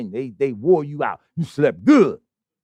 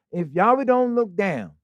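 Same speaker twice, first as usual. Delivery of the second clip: said real slow. Shown as a demonstration. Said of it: "Let me say that real slow".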